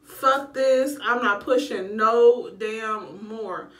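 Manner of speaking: loud, slow, dragged-out refusal; fed-up refusal. Retold or imitated. Mother in labour refusing to keep pushing, loud slow refusal. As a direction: drag out the final no. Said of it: "I was like".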